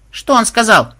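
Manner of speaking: put-on high, loud girlish demand; eager question. A narrator's reading. Granddaughter demands the programmer's reply, high eager voice. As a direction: ask it piercingly.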